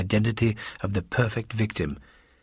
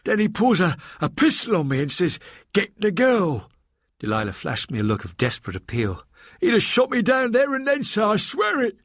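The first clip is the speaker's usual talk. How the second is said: high, distressed servant voice, much higher; a shaken maid pleading her tale; frightened maid Delilah; 11 semitones higher than usual. Acted. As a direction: Delilah telling Mister Box what happened, frightened. Delilah tells her story.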